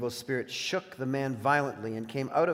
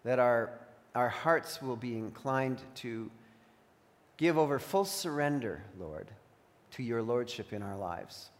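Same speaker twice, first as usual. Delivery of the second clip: prayer; 3 semitones lower, 3 dB quieter than usual. Real, not acted. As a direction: pray it reverently, letting phrases settle. Closes a spoken prayer.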